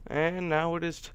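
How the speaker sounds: hiccuping mid-word; hiccups. Real, not acted. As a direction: cut off by a hiccup. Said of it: "I got the hiccups".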